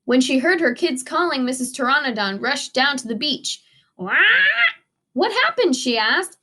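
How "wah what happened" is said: high startled cry; alarmed mom. A narrator's reading. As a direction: burst in, worried. Mother rushes down, alarmed.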